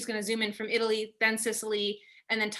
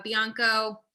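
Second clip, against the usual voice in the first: a slightly slowed, careful stab at the Italian name in an Italian accent; self-conscious Italian accent on a wine name; Italian pronunciation attempt; much slower than usual. Real, not acted. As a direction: try the Italian accent, knowing it's shaky. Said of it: "I apologize in advance for my poor Italian accent".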